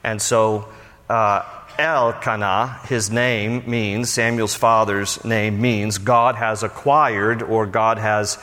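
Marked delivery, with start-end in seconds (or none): 1.8-2.8 Elkanah slowly, with El stressed; stress on first syllable. Shown as a demonstration. Teacher applying the guide's rule, Elkanah slowly stressed on El. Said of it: "You always put the accent on L".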